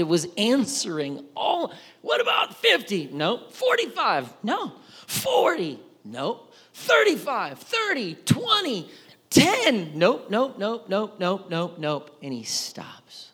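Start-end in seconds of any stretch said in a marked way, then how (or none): 2.0-12.2 high quick countdown; rapid back-and-forth. Real, not acted. Preacher recapping the haggling, lively. 12.2-13.3 slow whispered reveal. Real, not acted. Preacher landing the point, whispered.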